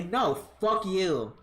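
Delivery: dismissive refusal. Pretend. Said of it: "I can say".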